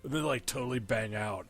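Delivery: lightly voiced dopey teen, trailing off; derpy teenager voice. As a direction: ramble like a clueless teenager. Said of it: "derpy teenager voice".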